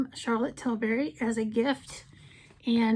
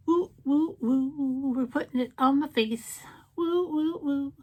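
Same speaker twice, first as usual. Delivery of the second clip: playful cheer; 3 semitones higher than usual. Real, not acted. Vlogger cheering as she puts shade on, excited. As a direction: cheer yourself on.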